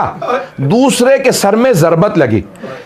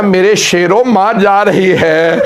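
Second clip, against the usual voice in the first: tearful farewell; slower than usual. Acted. Mother's farewell to dead sons.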